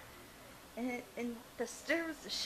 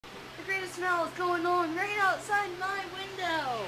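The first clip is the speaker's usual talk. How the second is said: sarcastic; 5 semitones higher, 7 dB louder, slower than usual. Acted. Mocking the stinking tar smell.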